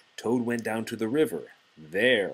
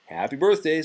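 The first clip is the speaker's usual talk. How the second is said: high, loud cheery birthday wish; bright greeting; 8 semitones higher, 8 dB louder, faster than usual. Acted. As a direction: cheer it out, much higher and louder. Frog greets Toad cheerfully.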